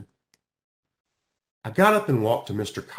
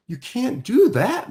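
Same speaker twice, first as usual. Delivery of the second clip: higher, louder, eager objection; objecting; 11 semitones higher, 6 dB louder than usual. Acted. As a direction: burst in to correct him. Girl objects to equal watering.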